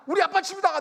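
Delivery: high, loud proclamation; worked-up shout. Retold or imitated. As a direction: re-enact an excited yell in a quarrel. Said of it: "그러니까 저도 흥분했어요". (흥분해서 외치듯)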